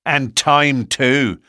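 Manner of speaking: loud eager cry. A narrator's reading. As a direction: call it out loudly. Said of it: "cried Ted Baldwin".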